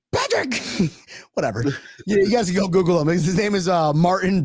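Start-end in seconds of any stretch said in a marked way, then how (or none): 0.1-0.6 high calling out; mock reporter call. Host replaying reporter calling Patrick, high call. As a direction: shout a name across a crowd. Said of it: "That was the funniest thing".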